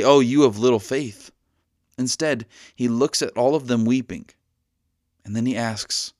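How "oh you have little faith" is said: louder, chiding tone; mock scolding. Jesus imagined scolding the weeping crowd, mock reproach. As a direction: scold them lightly for doubting. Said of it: "He doesn't say".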